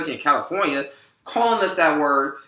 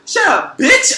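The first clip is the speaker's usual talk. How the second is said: much higher, louder imitated yell; mock angry yell; 8 dB louder, slower than usual. Imitating the guy on the bus yelling at the woman, a loud angry shout. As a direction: bark it out like the guy on the stairs. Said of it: "He's like".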